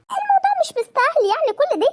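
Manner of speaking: استخفاف. Acted. استخفاف بالموضوع.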